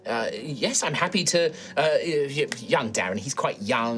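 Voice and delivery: polite, flustered host introducing herself; old halfling woman. Acted. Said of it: "she will turn to you and be like".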